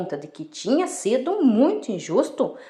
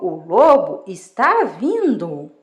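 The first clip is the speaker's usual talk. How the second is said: mock alarm call; 2 semitones lower, slower than usual. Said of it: "começou a gritar".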